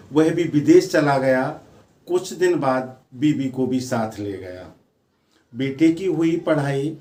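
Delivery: measured verse with repeated lines; poem recitation. Acted. Poet on children grown and gone, lilting recitation. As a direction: declaim lightly, pausing between phrases.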